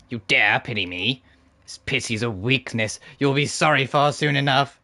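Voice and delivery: scornful nasal villain; nasal boss sneering; nasally annoying voice. Acted. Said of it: "gave him the nasally annoying voice".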